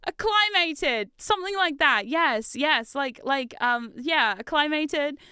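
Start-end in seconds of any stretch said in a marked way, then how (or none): 0.1-1.1 searching slowly. Real, not acted. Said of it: "what's that word?".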